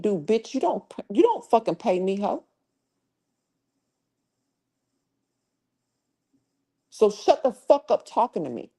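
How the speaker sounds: heated, rising cursing; angry rant. Real, not acted. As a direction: tell off a troll. Angry rant at chat member.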